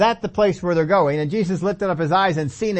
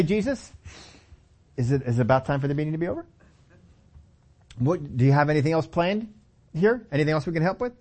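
softer, quick, deferential asking; polite request; 3 semitones lower, 3 dB quieter than usual. Retold or imitated. Disciples politely asking Jesus if the meeting is over, softly. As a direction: ask gently, a hint of politeness. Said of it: "They didn't come up to Jesus and say".

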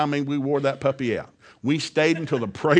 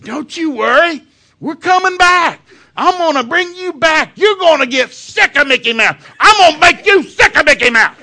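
fervent loud promise; 12 dB louder than usual. Retold or imitated. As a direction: swear it like a determined dad. Father vows to daughter.

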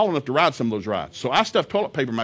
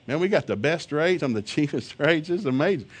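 ordinary talk, nothing marked

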